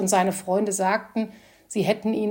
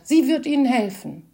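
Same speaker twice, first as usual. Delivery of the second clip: relieved; 5 semitones higher, 6 dB louder than usual. A narrator's reading. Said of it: "rief er erleichtert".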